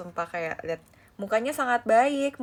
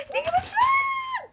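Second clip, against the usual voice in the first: delighted shriek; slower than usual. Real, not acted. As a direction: shriek at the cute find. Shrieking at rare collab item.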